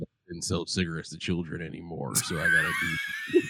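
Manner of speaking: mock shouting Marlboro Man.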